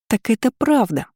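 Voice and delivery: a high, squeaky cry with a falling end on «правда»; squeaking. A narrator's reading. Lira turning to Florence, high squeak. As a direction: squeak it out in delight. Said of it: "пропищала Лира".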